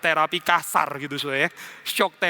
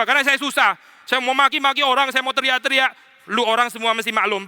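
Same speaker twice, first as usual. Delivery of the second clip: a raised, insistent voice demanding sympathy; self-pitying sick person; 5 semitones higher than usual. Acted. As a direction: act out the sulky patient who expects the world to understand. Voicing the self-centred sick person.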